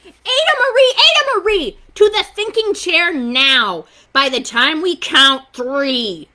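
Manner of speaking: high, loud scolding parent; angry scolding. A narrator's reading. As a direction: parents ordering her to the chair.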